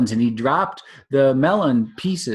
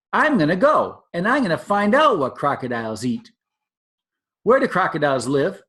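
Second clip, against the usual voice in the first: lightly voiced excited young elephant; eager baby elephant; 5 semitones higher than usual. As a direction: play the curious baby elephant.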